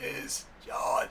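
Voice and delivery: strained croaking, struggling to get words out. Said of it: "he sort of croaks it out".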